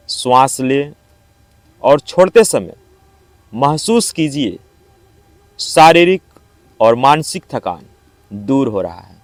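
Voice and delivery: measured yoga nidra instructions with long pauses; guided meditation. Acted. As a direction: guide them calmly into rest, phrase by phrase. (योग निद्रा का शांत निर्देश, ठहर-ठहर कर)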